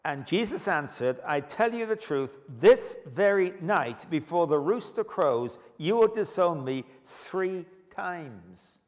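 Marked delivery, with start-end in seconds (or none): 1.2-8.8 solemn warning. Acted. Preacher voicing Jesus' solemn warning.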